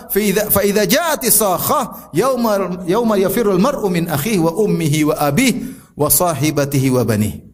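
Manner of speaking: measured Arabic verse recitation; Quran recitation. Acted. Preacher quotes the Quran to his listeners, reciting.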